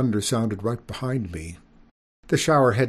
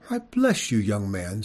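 kindly lady voice. Acted. Skunk mother greets boy.

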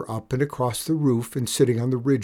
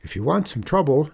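put-on higher, quick boy's voice; plucky boy; 5 semitones higher, 3 dB louder, faster than usual. Boy challenging an outlaw boss, lightly plucky. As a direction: pipe up with a challenge.

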